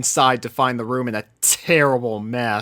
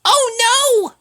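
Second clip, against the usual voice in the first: alarmed; 6 dB louder than usual. A narrator's reading. Sweetie Belle alarmed.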